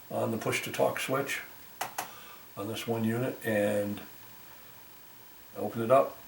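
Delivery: ordinary talk, nothing marked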